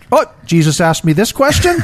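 laughing through a stunned quote; amused disbelief. Retold or imitated. Cohost imagining Peter's stunned thought, laughing disbelief. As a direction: laugh at Peter's shock while voicing him.

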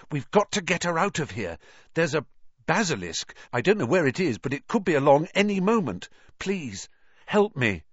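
high, loud, fast begging; urgent high-pitched pleading; urgent plea. Acted. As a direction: hurry him, danger is near. Harry begging for help urgently.

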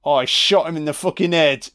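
ordinary delivery

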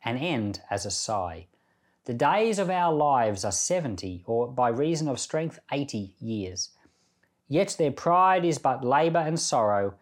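measured, prayerful reading of a psalm; scripture reading. Acted. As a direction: read the psalm aloud with reverence. Reads Psalm ninety aloud.

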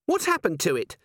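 high, anxious question; panic receding. A narrator's reading. Dwarf eyeing the hurt wolf, panic easing. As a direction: still a little alarmed. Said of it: "her panic receding a little".

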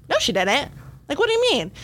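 rising to a high disbelieving cry; shocked denial. Retold or imitated. Coach hearing a runner died, shocked disbelief. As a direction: refuse to believe the news.

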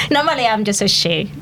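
put-on French accent. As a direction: keep up the French accent while explaining. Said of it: "Can I speak with a French accent?".

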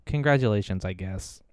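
dry, trailing off sarcastically; grudging congratulations. Retold or imitated. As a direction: congratulate them without meaning it. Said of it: "It's like".

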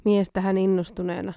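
ordinary talk, nothing marked

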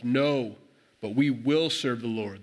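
firm, deliberate insistence; emphatic. Retold or imitated. People answering Joshua's challenge, emphatic. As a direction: insist slowly, weight on each word. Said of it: "They're emphatic".

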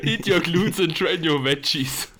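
slow, high, laughing motto; laughing slogan. Pretend. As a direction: chant it through laughter. (lachend vorgetragener Slogan)

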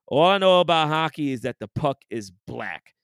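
imitating a weighty "black" at the end; mock-solemn "black"; stress on black. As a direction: lean on "black" as if it's profound. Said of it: "put the emphasis on the word black".

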